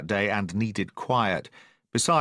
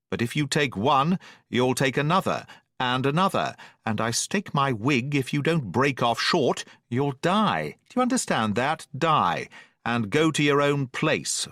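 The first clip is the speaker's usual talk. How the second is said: a mild lecture from the doctor; stern doctor; 2 semitones higher than usual. Acted. Doctor warns captain about rum.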